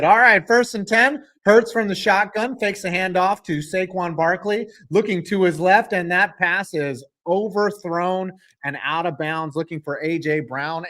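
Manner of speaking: energetic football play call; steady sportscaster delivery, lifted at the start; live play-by-play. Real, not acted.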